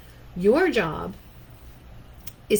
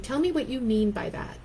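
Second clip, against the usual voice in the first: calm confronting line; 4 semitones higher than usual. Shown as a demonstration. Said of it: "perfectly calm and contained way".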